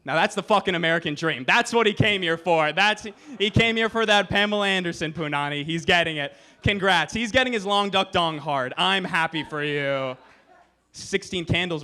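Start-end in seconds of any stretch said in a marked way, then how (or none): 0.1-10.2 enthusiastic cheering. Retold or imitated. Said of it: "I go".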